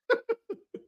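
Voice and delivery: short high burst of real laughter. Real, not acted. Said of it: "really made me laugh".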